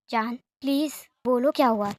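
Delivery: a tender, hushed please; soft voice. Retold or imitated. Friend coaxing his upset friend to talk, softly. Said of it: "बहुत ही soft voice में कहता है".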